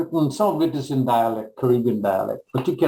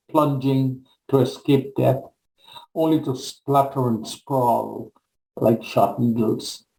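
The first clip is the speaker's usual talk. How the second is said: measured, solemn recital of a poem; poem reading. Acted. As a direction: read it as a spoken-word poem, giving each line weight. Reads own poem aloud.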